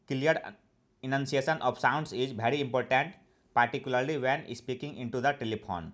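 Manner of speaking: each English word read out very slowly and evenly; slow dictation reading. Shown as a demonstration. Teacher reading an example sentence to learners, slow and deliberate. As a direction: read it slowly, as if for students to write down.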